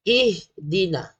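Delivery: slow "Ihdina" starting on clear i; correct vowel. Shown as a demonstration. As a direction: say "Ihdina" slowly. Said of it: "dia baca baris bawah". (baca "Ihdina" dengan baris bawah)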